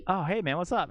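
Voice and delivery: lightly acted friendly hello; retold casual greeting. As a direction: imitate greeting someone you bumped into. Retold greeting on bumping into him.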